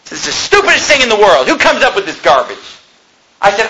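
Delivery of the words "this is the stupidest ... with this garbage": mildly raised, exasperated rant; retold anger. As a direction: re-enact a fed-up complaint. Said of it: "And I was mad".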